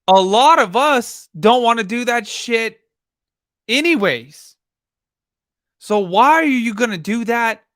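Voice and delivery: loud, high exasperated rant. Real, not acted. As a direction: push it out, fed up. Ranting at the case.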